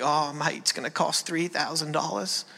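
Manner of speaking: imitated Australian father-in-law, a little soft; Australian accent. Father-in-law on the vet bill, imitated Australian accent. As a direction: lightly put on an Australian accent. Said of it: "My wife is Australian".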